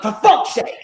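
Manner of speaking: mock exasperation at an interruption; exasperated curse. Narrator interrupted while recording his book, exasperated curse. Acts out reaction to phone interruption.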